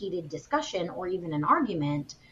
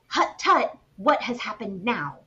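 put-on Dutch accent; 3 semitones higher, 4 dB louder than usual. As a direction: scold in a thick Dutch accent. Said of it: "in his step-grandmother's accent".

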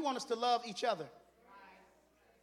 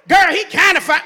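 laughing mock gush; 5 semitones higher, 17 dB louder than usual. Mocking a gushing answer.

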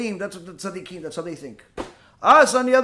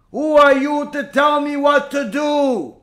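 raised, louder indignant yelling; screaming at him; 4 semitones higher, 4 dB louder than usual. Retold or imitated. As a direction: put the rabbi in his place furiously. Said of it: "starts screaming at him bloody murder".

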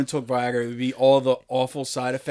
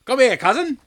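mock royal come-on; 10 semitones higher, 6 dB louder than usual. Mocking inbred royals.

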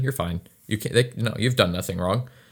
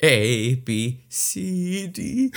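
nervous alphabet; 6 semitones higher, much slower than usual. Pretend. Driver reciting the alphabet for the cop, climbing nervously. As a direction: recite like you are terrified.

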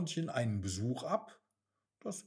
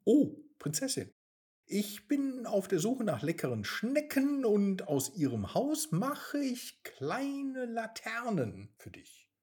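frightened; 7 semitones higher than usual. Acted. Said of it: "rief der Igel erschrocken".

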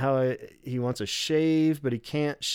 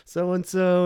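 mock makeup lady; 6 semitones higher, 4 dB louder than usual. Retelling makeup lady's answer.

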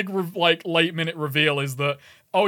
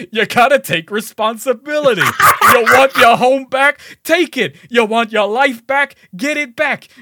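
loud, high rallying speech in a bad accent; hammed-up call to arms in a put-on accent; Jack Paris; 6 semitones higher, 7 dB louder than usual. Game rebel firing up the crowd, loud bad accent. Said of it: "my bad accent".

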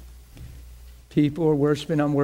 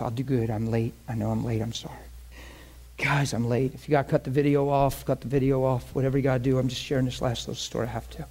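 choked up; 2 semitones lower, faster than usual. Real, not acted. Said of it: "it gets me to cry when I talk about this".

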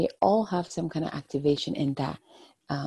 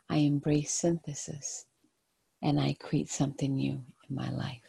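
soft spa whisper; 3 dB quieter than usual. Acted. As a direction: repeat it like a calming mantra. Repeating an affirmation three times.

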